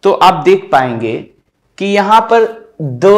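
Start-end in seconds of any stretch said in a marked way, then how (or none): 2.8-3.1 द spoken lightly, without stress; a light, unstressed द. Shown as a demonstration. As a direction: keep द light and unaccented. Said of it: "एकदम lightly बोला गया".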